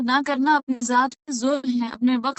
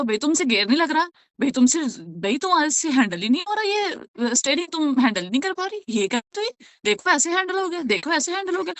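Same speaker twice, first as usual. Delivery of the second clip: quick, higher, talking down to a learner; condescending instructor; 3 semitones higher than usual. Pretend. Know-it-all lecturing a beginner driver, fast and patronising. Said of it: "اور آپ اسے بولو".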